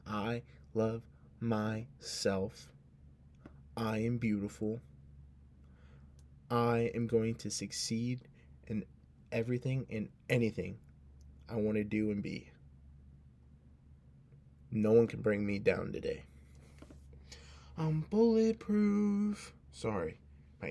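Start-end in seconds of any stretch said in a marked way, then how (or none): 0.1-16.2 affirmation. Shown as a demonstration. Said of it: "say it to yourself with me". 17.8-19.5 much higher, louder and very slow; triumphant. Shown as a demonstration. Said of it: "say it to yourself with me".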